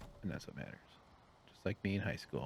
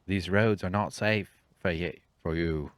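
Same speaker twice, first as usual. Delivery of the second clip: 1 Aragorn line; 7 dB louder than usual. Retold or imitated. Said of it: "he doesn't do a British accent".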